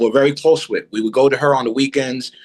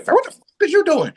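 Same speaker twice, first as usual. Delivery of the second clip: mock yell, pitched way up; angry yell. Drunk man yells at the boy running out. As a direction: imitate him hollering after the kid. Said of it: "I heard him say something".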